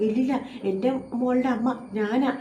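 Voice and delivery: slowly insisting, a touch unhinged; slow, half-crazed insistence on ഞാനാ; talking herself into it, slowly; slow muttered denial. Acted. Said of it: "ഒരു ഭ്രാന്ത് പിടിച്ച പോലെ".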